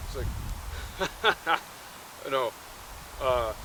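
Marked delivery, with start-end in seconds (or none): 0.3-1.6 short staccato put-on laugh; a quick, voiceless ha-ha-ha; mock Santa laugh. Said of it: "he's on the sleigh".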